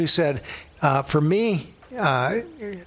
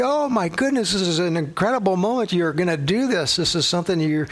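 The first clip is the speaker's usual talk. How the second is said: elated; 2 semitones higher than usual. Retold or imitated. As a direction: gush with delighted disbelief. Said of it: "I was, like, elated".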